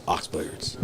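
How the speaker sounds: low breathy announcer voice; cool voice. Shown as a demonstration. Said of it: "I'm gonna say it in my cool voice".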